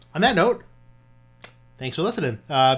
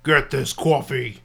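awful Braun Strowman impression; 3 dB louder, slower than usual. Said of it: "my awful Braun Strowman impression".

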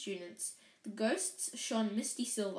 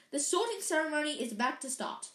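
sharp voice; 5 semitones higher, faster than usual. Acted. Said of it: "said a sharp voice".

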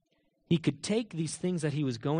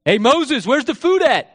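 loud, higher demanding call; 8 semitones higher, 11 dB louder, slower than usual. Acted. Hungry crowd yelling at Moses about food, calling out. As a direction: shout for it across a distance.

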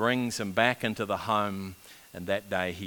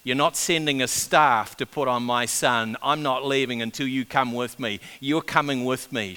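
raised, louder, insistent plea; firm, urgent pleading, higher and louder; pleading woman; 4 semitones higher, 7 dB louder than usual. Retold or imitated. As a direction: act out a mother refusing to be turned away. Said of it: "She pleads with him".

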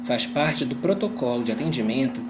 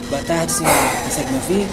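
speaking up; 6 dB louder than usual. Acted. Agent speaking up over bad line.

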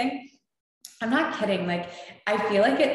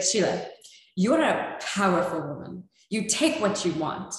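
rough attempt at a thick Russian accent. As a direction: imitate a Russian friend's accent. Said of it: "with this thick Russian accent".

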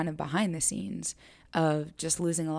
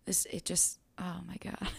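breathless whispered oh my God; hushed, caught by the memory; real emotion, almost no voice; overcome whisper; 8 dB quieter than usual. Real, not acted. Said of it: "I feel this so much when I say this".

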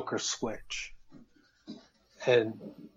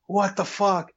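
higher, stunned what the fuck; shocked disbelief; 6 semitones higher than usual. Retold or imitated. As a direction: react in shock.

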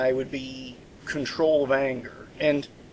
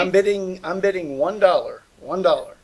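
auctioneer voice; 4 semitones higher than usual. Pretend. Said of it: "I sound like an auctioneer".

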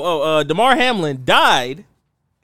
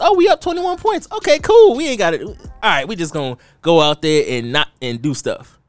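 mocking coaches. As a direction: mimic careless coaches, voice way up. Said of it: "when they realized".

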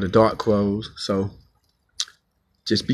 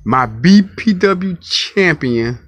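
hype announcement; 6 semitones higher, 4 dB louder, slower than usual. Acted. Wrestling promo hyping his champion.

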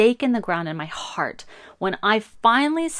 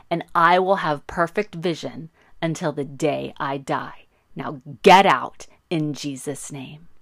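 retold yell; 3 dB louder than usual. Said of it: "And I yelled".

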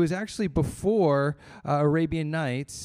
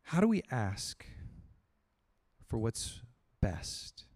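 fading to a whisper; hushed question; 7 semitones lower, 9 dB quieter than usual. Shown as a demonstration. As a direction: let the question sink in softly. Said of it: "preacher hushes the question".

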